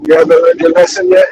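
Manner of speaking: muffled, like through a wall. Real, not acted. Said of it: "You sound muffled".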